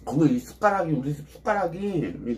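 speaking with food in mouth; mumbled words between bites; talking while chewing. Real, not acted. Seen 0: Took a bite beforehand; lips working, grimacing while speaking until about 2.3s.

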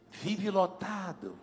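slow hushed repetition; slow emphatic translation. Shown as a demonstration. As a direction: stretch it out softly for the crowd. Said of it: "eu vou traduzir".

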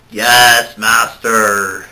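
Igor-like lackey voice; hunchback servant. Acted. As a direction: grovel like a servant.

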